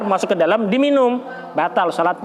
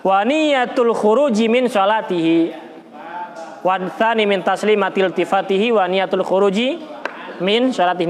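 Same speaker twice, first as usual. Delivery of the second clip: verse recitation. Acted. Teacher recites the Arabic rule to students, measured chant. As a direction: recite it like memorised lines.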